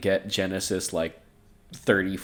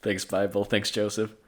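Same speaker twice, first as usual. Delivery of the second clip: normal talking voice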